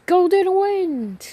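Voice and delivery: high, slow shout of the name; stand call shout. Acted. Giorno gets up and summons his stand, shouting slow and high. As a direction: call the stand out full force.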